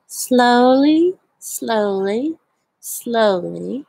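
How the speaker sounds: each slowly drawn out long, rising gently. Shown as a demonstration. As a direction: stretch every slowly like a sloth moving. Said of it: "I like to read this book very slowly".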